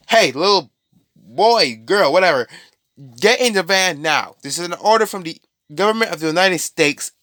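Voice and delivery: hammed-up armed squad ordering a kid into the van; mock soldier order. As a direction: bark it like a government soldier.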